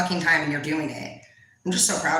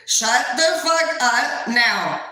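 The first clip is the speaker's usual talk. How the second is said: slow, higher, exasperated command; fed-up retort; 4 semitones higher, much slower than usual. Retold or imitated. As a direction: space it out, mildly fed up. Retort to the loud boss.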